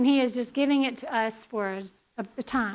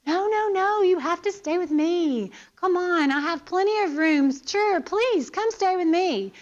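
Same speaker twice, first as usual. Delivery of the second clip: higher, eager insistence on the guests staying; eager pleading hostess; 4 semitones higher than usual. Retold or imitated. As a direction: play a host who won't take no for an answer. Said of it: "So can you say".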